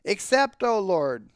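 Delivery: high-pitched invocation to God; prayer. A narrator's reading. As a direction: call on the Lord in prayer. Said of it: "he continues the prayer".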